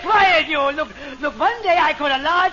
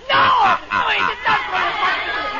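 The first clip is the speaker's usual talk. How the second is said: exasperated shouting denial; angry; 4 semitones higher than usual. Acted. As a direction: snap back, fed up.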